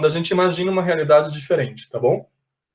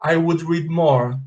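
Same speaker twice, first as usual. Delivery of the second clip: slow, clear example; slower than usual. Shown as a demonstration. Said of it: "Aí eu imagino uma realidade diferente".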